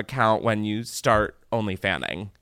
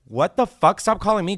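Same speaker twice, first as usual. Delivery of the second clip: high, loud indignant retort; hammed-up exasperated brush-off; mock outrage; 9 semitones higher, 5 dB louder than usual. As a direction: act appalled by the caller. Acts outraged reaction to misheard phrase.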